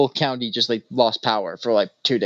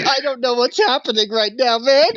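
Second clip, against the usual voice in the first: pleading crying man; 10 semitones higher than usual. Retold or imitated. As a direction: drag out a tearful desperate question. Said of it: "He's like".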